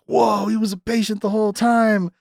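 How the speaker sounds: high-pitched imitation of stunned viewers; mock amazement. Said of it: "people get really like".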